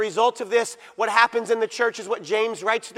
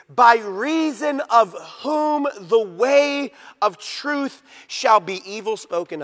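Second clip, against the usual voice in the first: scripture reading; 3 semitones higher, 4 dB louder, much slower than usual. Real, not acted. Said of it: "You notice this?".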